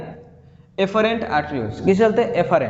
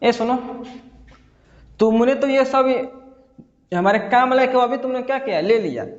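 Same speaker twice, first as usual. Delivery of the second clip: capillaries talking; 4 semitones higher than usual. Acted. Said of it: "capillaries बोलता है, बोलता है इसको".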